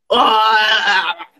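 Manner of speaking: drawn-out cry of frustration; frustrated groan stretched out; exasperated wail. Acted. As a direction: let out a long exasperated "Ah". Acts out frustration at not being heard.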